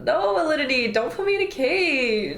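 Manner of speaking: giggling through a pretend plea; laughing mock protest. Voicing caged friend, laughing and pleading. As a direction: laugh while begging to be let out.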